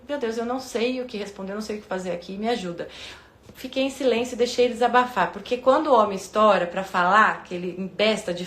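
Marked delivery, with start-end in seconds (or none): 0.1-2.9 quiet prayer. Retold or imitated.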